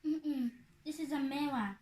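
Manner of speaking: talking with cheeks squeezed; squished cheeks. Real, not acted. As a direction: speak through squeezed cheeks. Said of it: "Can you stop squeezing my face".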